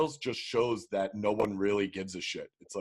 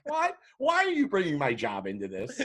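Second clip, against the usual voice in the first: baffled; 4 semitones higher than usual. Retold or imitated. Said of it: "She's like".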